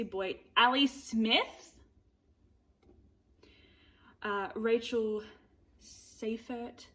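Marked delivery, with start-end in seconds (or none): 5.8-6.9 Seifert said as SAY-fert, tentative; unsure name. Shown as a demonstration. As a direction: Seifert with a long ay, trying it out. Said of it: "I apologize".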